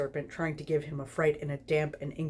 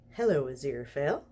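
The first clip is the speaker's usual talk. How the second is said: purred. Acted. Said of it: "Crowley purred".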